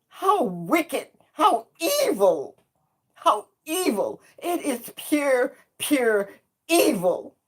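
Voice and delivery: real anguish, tearful and rising; crying out in anguish. Real, not acted. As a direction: voice breaking into tears on evil. Anguished outcry at racist harassment.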